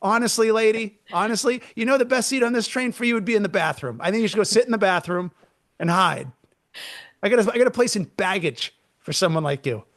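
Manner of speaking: roast her for fun, fast; mock roast. Talker mocking the nail polish woman on the train, mock roast. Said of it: "Be like".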